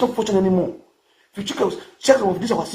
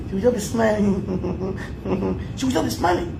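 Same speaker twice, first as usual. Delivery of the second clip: laughing; much slower than usual. Real, not acted. Laughing retelling.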